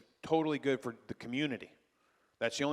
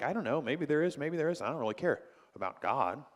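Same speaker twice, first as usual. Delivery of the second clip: apathetic existentialist; 2 semitones higher than usual. Retold or imitated. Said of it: "Existentialists are like".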